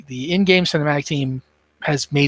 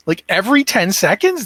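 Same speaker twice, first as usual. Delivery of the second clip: amazed question; 5 semitones higher than usual. Real, not acted. Amazed by healing talent.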